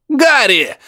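high yell from a speaker. A narrator's reading. Professor yelling through the receiver, high. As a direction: bellow the name. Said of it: "заорал приёмник".

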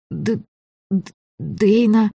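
slow, high stammered name; frightened stammer. A narrator's reading. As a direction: stumble over the name in fear. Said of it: "выговорила я".

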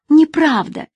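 high, loud outburst; hurt woman cries out in protest; exclaimed. Acted. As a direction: fling the denial at him. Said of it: "воскликнула женщина".

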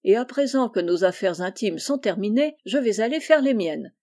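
plain reading voice

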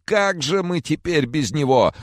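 high tearful wail; keen over the lost son; wailing lament. Acted. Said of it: "запричитал он".

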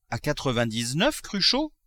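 a miser who cannot believe the price; incredulous question. Acted. The miser asks the notary, surprised and rising.

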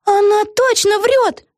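lightly voiced young girl, high; a hint of a worried girl; girl character voice. A narrator's reading. Vega to Peggy, a lightly voiced girl.

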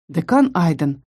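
low, faint, strained attempt; voice failing. A narrator's reading. Girl trying to answer the dean, voice gone weak. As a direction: barely squeeze the words out. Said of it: "но голос сел".

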